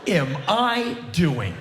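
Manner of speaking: high, startled self-questioning; baffled at himself. Retold or imitated. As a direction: catch yourself mid-pose and wonder. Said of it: "I'm like".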